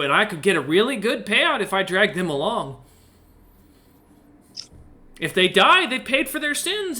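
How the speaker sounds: high-pitched, swooping excited pitch for an adventure; giddy, eager character voice that leaps up high; eager excitement. Acted. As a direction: talk them into it, pitch climbing with excitement. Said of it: "almost on alert with excitement".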